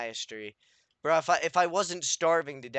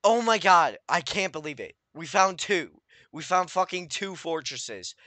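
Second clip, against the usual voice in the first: loud, rising cry of delight; excited shout; 3 semitones higher, 6 dB louder than usual. Real, not acted. Gamer spotting two fortresses, shouting with excitement. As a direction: shout it out in disbelief.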